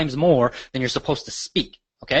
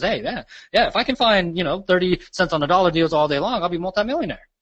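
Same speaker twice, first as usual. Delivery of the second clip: mildly sarcastic; 5 semitones higher than usual. Retold or imitated. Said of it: "he was being a little bit sarcastic".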